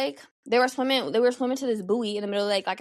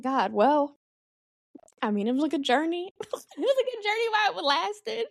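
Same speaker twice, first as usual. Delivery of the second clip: mock dramatic farewell; 7 semitones higher than usual. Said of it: "and I'm just like".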